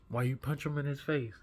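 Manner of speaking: confronting the bully, rising anger. Retold or imitated. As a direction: demand it again with heat. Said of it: "I'm furious".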